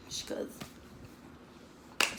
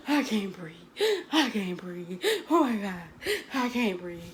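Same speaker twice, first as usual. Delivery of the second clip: hammed-up panic attack, breathless and crying; mock panic. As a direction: fake a panic attack, sobbing lightly. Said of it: "acting like she had a panic attack".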